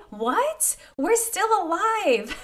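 high, giddy mock surprise, laughing. Real, not acted. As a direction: squeal it out amused. Joking they survived covid.

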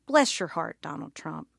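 sugar-coat it like a Southerner readying an insult; fake-polite Southern put-down; Southern bless your heart. Shown as a demonstration. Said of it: "That's how a Southerner preps to throw out an insult".

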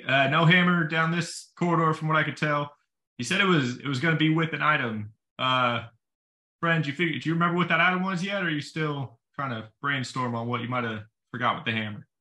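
calling out. Acted. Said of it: "gonna yell back to the guys".

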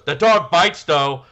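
high, loud offhand warning; kid voice. Retold or imitated. Kid warning after the ball is thrown, loud kid voice. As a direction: drop it casually like a kid. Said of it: "I'm trying to do a kid voice".

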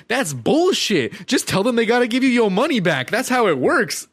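put-on high, pushy boyfriend hollering from behind; imitated boyfriend. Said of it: "her boyfriend is like".

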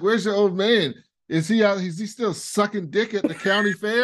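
lightly hammed crude roast; imitating Logan. Logan roasting Greg about his dad, lightly mocking. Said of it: "He's like".

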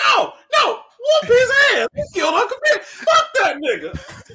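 high, loud, laughing mock outrage; hammed-up shouted protest; outraged yelling. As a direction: holler for revenge through laughter. Acted outraged reaction to the apology.

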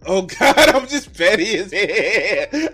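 loud, high, laughing through words; crying with laughter; laughing hard. Real, not acted. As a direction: talk while cracking up. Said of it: "I'm laughing at".

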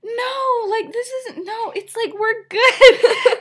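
high-pitched laughing reassurance. Real, not acted. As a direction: laugh through the whole line. Friends reassure, speaker laughing.

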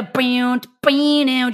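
mouthed twanging riff noise; imitated guitar riff. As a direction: sing out the riff as nonsense sounds. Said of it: "You just get that rip".

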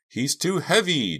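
high, slow, loud strain; grunting with effort. A narrator's reading. Girl shoving a heavy body, straining. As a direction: push the words out with effort. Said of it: "Jade grunted".

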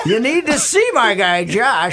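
high, emphatic sponsor pitch; punchy radio endorsement; ad read. Real, not acted. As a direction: sell it hard to the listeners. Reads a sponsor ad.

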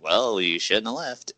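drawn-out mock reproach; mock scolding. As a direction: mockingly scold them, drawing it out. Mocking answer to the fans.

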